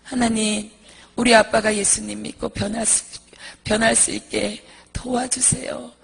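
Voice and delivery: earnest, measured plea to God; acted heartfelt prayer; mother's prayer. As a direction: pray for the father as the mother would. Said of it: "아빠를 위해서 기도해 주는".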